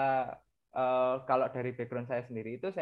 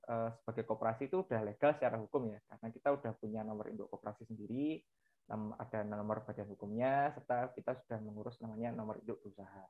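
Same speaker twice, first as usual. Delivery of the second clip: far from mic. Real, not acted. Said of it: "Mas Kresna agak kurang gede suaranya katanya".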